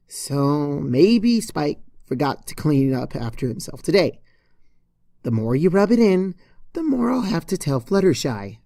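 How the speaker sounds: lightly voiced irritated young mare; Twilight Sparkle voice.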